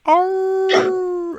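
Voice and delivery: long distant wolf howl. Acted. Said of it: "like a wolf howl".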